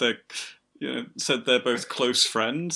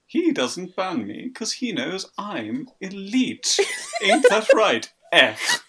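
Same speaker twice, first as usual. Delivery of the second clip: posh bastard voice; 6 semitones higher, slower than usual. Acted. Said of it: "that's the voice".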